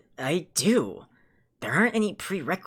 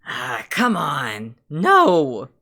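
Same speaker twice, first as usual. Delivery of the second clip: dismissive; 5 semitones lower, 4 dB louder, much slower than usual. Acted. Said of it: "Merle started almost dismissively".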